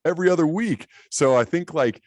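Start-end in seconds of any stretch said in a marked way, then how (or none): 0.1-0.9 high, exasperated mock outrage at the boss; incredulous retort. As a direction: play the stunned employee, pitch way up. Angry retelling of manager watching TV.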